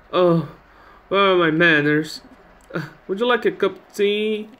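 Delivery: voiced old lady remembering her manners; old lady hostess. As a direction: play an old lady offering hospitality. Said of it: "it's an old lady".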